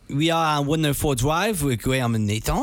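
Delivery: put-on French accent. Told to be French in an accent game, mock French accent. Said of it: "Graham, you're French".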